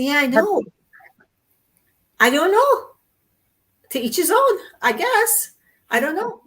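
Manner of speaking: high, loud imitation of a friend; mimicked shrugging reply. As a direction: toss it off high-pitched, mock clueless. Acting out friend's reply in retold call.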